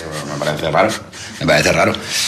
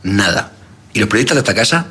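comic character voice. Acted. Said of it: "¿quién es el número uno?".

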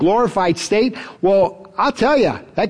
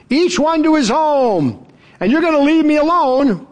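earnest warning; 7 semitones higher than usual. Retold or imitated. Jesus voiced foretelling abandonment.

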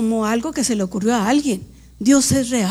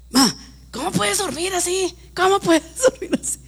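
higher, laughing imitation of the daughter; mock daughter; 6 semitones higher than usual. Mother imitating her daughter amazed she can sleep, laughing. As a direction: laugh through her disbelief. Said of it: "y luego".

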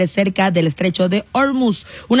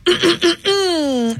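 long high throat-clear; drawn-out high-pitched "ahem"; 7 semitones higher than usual. Real, not acted. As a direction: clear your throat showily before reading. Clears throat before the bulletin.

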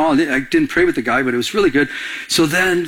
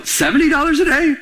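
pitched higher, mock outrage at the price; incredulous repeat; 9 semitones higher than usual. Retelling his rental clerk talk, higher incredulous echo. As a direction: echo the price back in disbelief, rising. Retold shock, said a second time.

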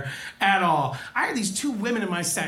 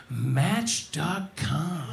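deadpan; 4 semitones lower, much slower than usual. Retold or imitated. Deadpan punchline, serious face.

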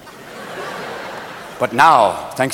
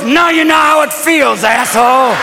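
vindictive wife; 4 semitones higher than usual. Acted. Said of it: "And your wife goes".

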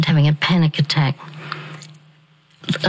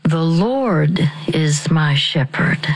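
slow and calm; slower than usual. Shown as a demonstration. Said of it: "Deep breath".

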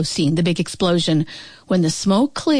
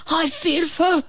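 stammering dragon; 8 semitones higher than usual. A narrator's reading. Sick dragon father tells his son how he feels, stammering. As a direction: stumble over the words, feeling awful.

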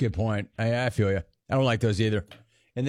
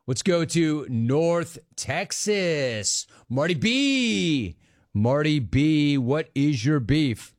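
drawn-out announcer intro; much slower than usual. Acted. Radio host introducing the next caller in a slow, stretched announcer voice. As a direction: stretch each word like a radio showman.

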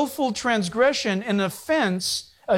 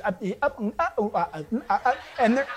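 mimicked sped-up babble. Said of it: "Do it real quick, and they're going".

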